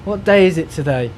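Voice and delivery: high, drawled mock of idle staff; lazy staff mockery. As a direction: lampoon the lazy people. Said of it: "people lying there, going".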